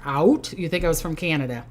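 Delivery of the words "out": Minnesota accent. Shown as a demonstration. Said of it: "you can hear that Minnesota accent there".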